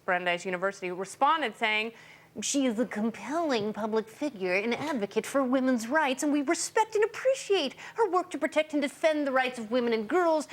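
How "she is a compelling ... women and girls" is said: sarcastic, higher, overly earnest read; mock-tearful reading. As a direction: read it like a sappy press release. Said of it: "Sorry, I was choking on my tears and vomit".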